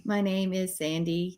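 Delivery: slow flat robotic voice. Pretend. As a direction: speak like a stiff robot. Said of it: "why are we talking like robots".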